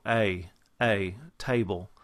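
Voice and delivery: Texan "table", strong glide on the a; Texas accent. Shown as a demonstration. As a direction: stretch the Texas diphthong distinctly. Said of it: "you hear that very distinct diphthong".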